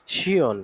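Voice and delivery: "শিয়ন" drawn out as shi-on; demonstrated pronunciation. Shown as a demonstration. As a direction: model the ending "শিয়ন" clearly for learners. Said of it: "শিয়ন উচ্চারণ করা".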